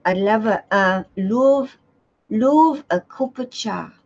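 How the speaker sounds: halting attempt at a British accent. Shown as a demonstration. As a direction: try on British, drawing out "love". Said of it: "Can you do a British accent?".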